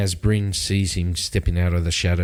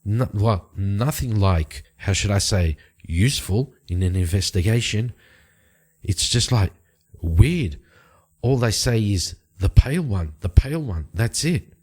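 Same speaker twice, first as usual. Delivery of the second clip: slightly exasperated explanation, pitched higher; lightly voiced informant; 3 semitones higher than usual. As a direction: lightly play a woman reporting a stalled investigation, higher voice. Game master voices Bryn explaining the problem.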